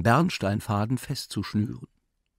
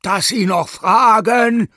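much higher, louder and slow angry yell; furious roar; 12 semitones higher, 10 dB louder, slower than usual. Acted. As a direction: bellow at him in outrage. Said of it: "brüllte aufgebracht der Professor".

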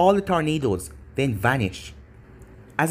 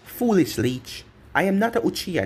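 disgusted; 3 semitones higher than usual. Acted. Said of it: "said in disgust".

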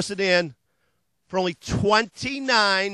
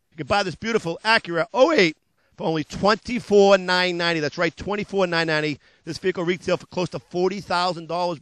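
hard-sell ad read. Acted. Car dealer pitching used cars to TV viewers, hard-sell ad voice. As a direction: sell it like a late-night car ad.

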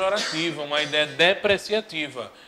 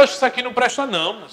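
fast protest; 6 semitones higher, much faster than usual. Acted. Husband rejects cheaper beer.

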